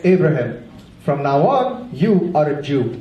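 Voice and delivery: a hint of a solemn, booming deity; voice of God. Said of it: "I am speaking like the voice of God".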